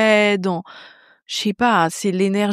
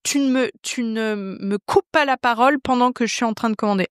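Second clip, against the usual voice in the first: mildly imitated aggressive tone; 4 semitones higher than usual. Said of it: "il met sa main de manière agressive".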